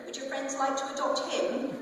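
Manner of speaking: a scornful little laugh through the question; sarcastic laugh. Acted. Kay mocking the adoption idea, scornful laugh. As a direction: challenge them with a bitter chuckle.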